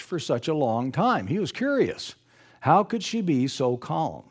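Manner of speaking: reads the passage straight from the book; steady storybook narration; story reading. Acted. Preacher quoting the author's account to the congregation, reading it aloud.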